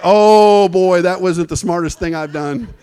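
loud "oh" then laughing through it; sheepish laugh. Retold or imitated. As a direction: admit the blunder with a chuckle. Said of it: "And I was like".

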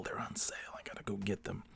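whispered greedy secret; whispering. Acted.

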